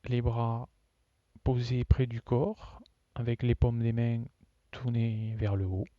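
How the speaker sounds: measured yoga nidra instruction with long pauses; guided relaxation. Real, not acted. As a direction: guide them phrase by phrase, leaving long silences. Leads a yoga nidra session.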